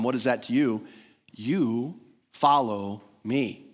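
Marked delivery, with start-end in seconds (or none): 1.3-3.6 "You" stressed, the whole line drawn out very slowly; slow, weighted "You follow me" with the stress on "You"; emphatic you. Shown as a demonstration. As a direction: lean hard on "You" and slow right down. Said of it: "The "you" here is emphatic".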